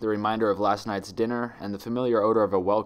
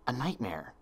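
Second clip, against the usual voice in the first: dawning realization; 3 semitones higher, 7 dB quieter than usual. A narrator's reading. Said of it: "as realization dawned on her".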